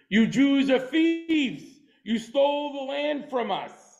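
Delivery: slow, deliberate mock accusation; accusing. A teacher voicing the nations accusing the Jews, slow mock accusation. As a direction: spell out the charge like an accuser. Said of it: "The nations of the world are going to say to you".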